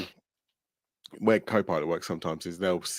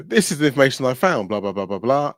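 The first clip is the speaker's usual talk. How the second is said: lightly voiced chatbot; upbeat assistant read-out, higher; imitating Copilot; 4 semitones higher, 4 dB louder than usual. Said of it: "They'll go".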